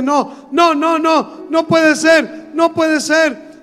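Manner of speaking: slow, pleading no, rising to a cry; a sobbing child refusing what he sees; retold crying. A father voicing his crying son's disbelief, slowly. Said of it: "empieza a llorar inconsolablemente".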